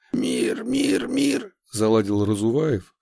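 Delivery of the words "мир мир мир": high, stuck repeating like a broken record; skipping record. Acted. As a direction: chant it over and over, stuck. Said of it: "словно заезженная пластинка".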